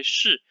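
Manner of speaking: 是 with a curled-tongue sh; rolled-up tongue sound. Shown as a demonstration. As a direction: curl the tongue up for 是. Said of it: "please roll up your tongue".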